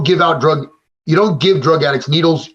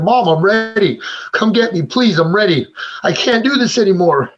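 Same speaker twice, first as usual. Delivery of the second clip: higher, strained crying plea; begging, voice pitched up and cracking; tearful plea; 5 semitones higher than usual. Retold or imitated. Son at top of stairs begging mom for help, teary and pitched up. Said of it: "I'm crying".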